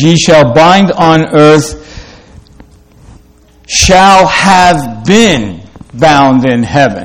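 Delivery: slow, word-by-word literal reading; awkward literal reading. Shown as a demonstration. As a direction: read it stiffly, each word weighed. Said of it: "It's kind of awkward sounding".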